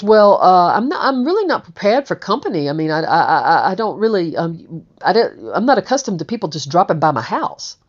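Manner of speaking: imitating a flustered host, stammering; halting, stuttering mock discomfort; retold flustered reluctance. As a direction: stumble through a polite brush-off, quick between hesitations. Retold flustered host with unexpected visitor.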